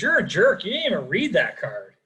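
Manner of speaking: wife snaps at him, mildly hammed-up; a touch of a fed-up wife telling him off; mock angry wife. Annoyed wife calls her husband a jerk, mock angry. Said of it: "she goes".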